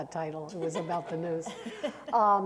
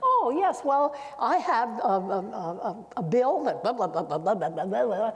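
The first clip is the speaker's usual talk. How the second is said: rambling politician; 2 semitones higher, 5 dB louder than usual. Retold or imitated. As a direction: imitate a politician dodging into filler. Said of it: "politicians always, you can ask them anything".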